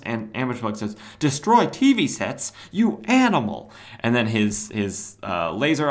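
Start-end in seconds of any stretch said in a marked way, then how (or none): 1.2-3.7 hammed-up indignant outburst; mock outrage. Ambush Bug aghast at Cobra's threat to TV sets, mock outraged.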